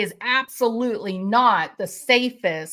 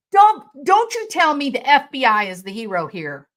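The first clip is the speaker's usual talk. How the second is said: louder, heated warning; real anger at the FBI; angry; 2 semitones higher, 5 dB louder, faster than usual. Real, not acted. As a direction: jab the words at them. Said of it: "because I got angry".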